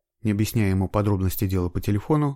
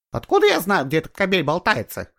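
much higher, louder hurt cry; resentful shout; 10 semitones higher, 5 dB louder than usual. A narrator's reading. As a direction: yell it out of wounded pride. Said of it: "выкрикнула с обидой в голосе женщина". (выкрикнула с обидой, высоко и громко)

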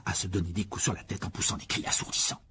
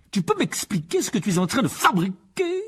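loud, higher, tight-jawed anger; through clenched teeth; 12 semitones higher, 7 dB louder than usual. Acted. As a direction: menace the boy without opening the jaw. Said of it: "sans desserrer les dents".

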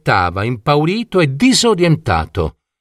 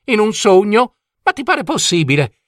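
put-on higher-pitched, theatrical old coachman in a huff; indignant dragon coachman; 5 semitones higher than usual. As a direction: grumble grandly, building to a mock proclamation. Coachman complains about change. (vecchio cocchiere indignato, acuto e teatrale)

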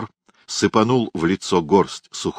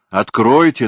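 insistent; 5 semitones higher, 6 dB louder than usual. A narrator's reading. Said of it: "настаивал сантехник".

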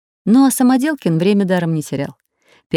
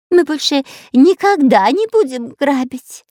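whimpering; 8 semitones higher, 3 dB louder than usual. A narrator's reading. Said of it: "захныкал Пулькин".

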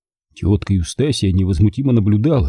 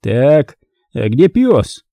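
loud, raised-pitch question; businesslike, louder enquiry; brisk authority; 4 semitones higher, 4 dB louder, much slower than usual. A narrator's reading. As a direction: take charge with a firm demand. Uncle takes charge, asks for dog.

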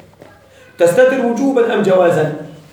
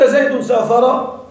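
slow example; 2 semitones higher, slower than usual. Shown as a demonstration. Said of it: "إن قلت".

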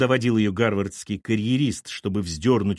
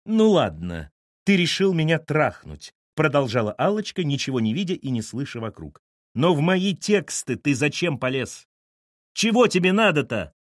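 furious; 3 semitones higher than usual. Acted. Allochka raging at Lyosha.

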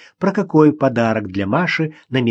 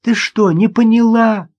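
high, loud disbelief; can't believe she missed it; amazed; 9 semitones higher, 5 dB louder, slower than usual. Acted. Daughter amazed her mother doesn't get it, high and loud.

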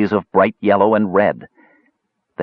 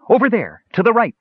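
shrieking; 13 semitones higher than usual. A narrator's reading. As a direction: shriek out the direction. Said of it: "Klotnik shrieked".

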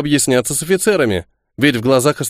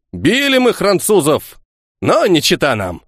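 scoffing; 5 semitones higher than usual. Acted. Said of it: "хмыкнул Ефим".

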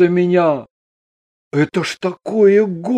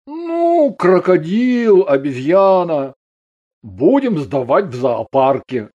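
wry, smirking. A narrator's reading. Husband jokes about the transformed women, with a smirk. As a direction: toss it off with a smirk. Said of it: "Андрей с усмешкой заметил".

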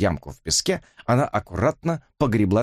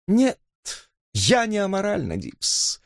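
higher drawl fading to a whisper; drawled thoughtfully; 11 semitones higher, slower than usual. Acted. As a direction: muse aloud, trailing off. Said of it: "протянула она задумчиво". (задумчиво протянула)

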